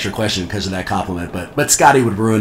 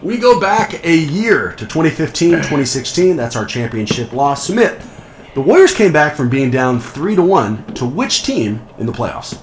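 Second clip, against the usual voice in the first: game show host voice. Pretend. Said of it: "my canned game show host voice".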